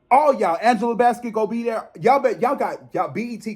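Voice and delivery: fired-up call-out, pitched high; heated demand. Real, not acted. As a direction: lay down the law to BET. Demanding tribute from BET, a singer.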